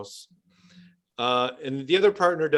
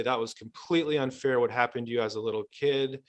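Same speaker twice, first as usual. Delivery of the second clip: softer, validating therapist voice; validating compassion; 4 dB quieter than usual. Acted. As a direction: reassure them gently that it wasn't fair. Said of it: "I'll say".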